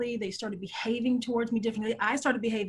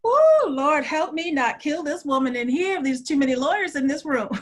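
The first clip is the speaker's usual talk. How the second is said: exasperated; 3 semitones higher, 6 dB louder than usual. Retold or imitated. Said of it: "I was like".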